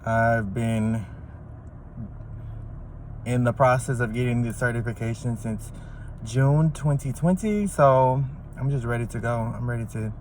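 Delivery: talking with retainers in; words shaped around a retainer; wearing a retainer. Real, not acted. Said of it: "I have my retainers in".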